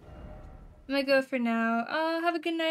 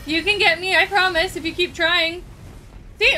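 loud cocky taunt; 3 semitones higher, 6 dB louder than usual. Real, not acted. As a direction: goad the enemy. Taunting the boss.

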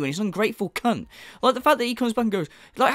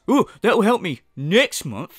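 slow, louder, grudging thanks; sarcastic mock thanks; 4 dB louder, slower than usual. Mocking the streamer's grudging thanks for a super chat, slow. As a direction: drag out a fake thank-you.

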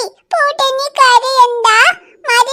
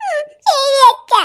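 put-on a touch of crying in a small child's reply; tearful. Daughter answering father while crying a little. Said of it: "കരയണ്ട".

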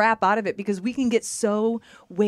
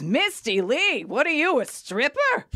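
high, drawn-out mocking disbelief; incredulous mock challenge; 7 semitones higher, slower than usual. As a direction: imitate a brash woman ribbing a newcomer.

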